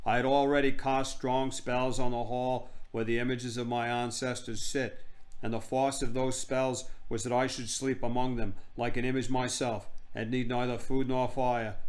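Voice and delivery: terrible actress playing a grand queen; hammed-up regal storytelling; haughty queen. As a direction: recite grandly in a put-on accent.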